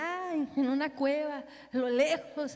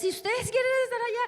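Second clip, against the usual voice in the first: put-on teacher voice to kids; 10 semitones higher, 4 dB louder, faster than usual. Teacher asks children in class.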